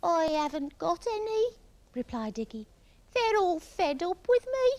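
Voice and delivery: high, plaintive complaint; Iggy sorry for himself. A narrator's reading. Iggy telling Parrot he is friendless, plaintive.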